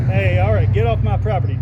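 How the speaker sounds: loud yell to someone outside; real shout. Real, not acted. Interrupting the story to yell at someone on his land. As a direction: bellow at a trespasser to clear off. Yelling at intruder mid-show.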